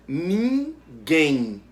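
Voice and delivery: ninguém stretched into two syllables, guém strong; slow, split ninguém with a firm last syllable; stress on GUÉM. Shown as a demonstration. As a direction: draw out ninguém and lean on guém. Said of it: "O quem é a sílaba pronunciada com mais força".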